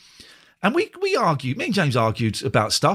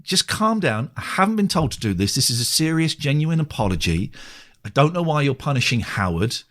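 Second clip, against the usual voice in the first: exasperated retort. Retold or imitated. Acting out exasperated third email.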